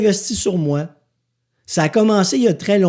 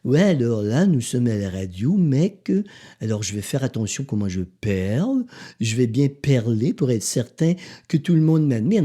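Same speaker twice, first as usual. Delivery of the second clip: mock snooty radio host; 6 semitones lower than usual. Mocking how careful radio hosts talk, lightly hammed-up. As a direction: mimic a stiff host trying to sound proper. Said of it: "Je m'en vais pas parler comme ça".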